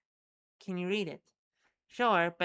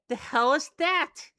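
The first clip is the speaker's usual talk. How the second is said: surprised; 8 semitones higher, 8 dB louder than usual. Acted. Startled by the creature.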